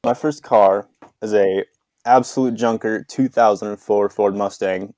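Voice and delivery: mouth full. Real, not acted. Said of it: "He's chewing".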